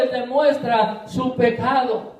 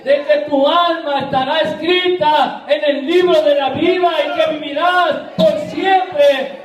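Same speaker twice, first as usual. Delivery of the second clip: rising preaching climax; 3 semitones higher than usual. Real, not acted. Preacher's climax on eternal life.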